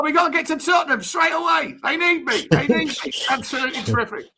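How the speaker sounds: lightly voiced Harry, chummy old manager bigging himself up; a hint of Redknapp's patter; Harry Redknapp impression. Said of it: "Harry Redknapp, you smashed it".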